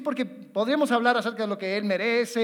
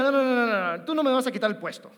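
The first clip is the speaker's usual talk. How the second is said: stubborn captain; faster than usual. Retold or imitated. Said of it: "Sería muy tonto que un capitán diga".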